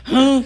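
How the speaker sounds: short, loud imitated growl; demon growl. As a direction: snarl like a tied-up beast. (rosnado imitado)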